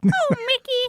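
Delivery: squeaking at very high pitch. Speaker tries to recall how she sounds, then attempts a Minnie Mouse voice. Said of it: "what Minnie Mouse sounds like".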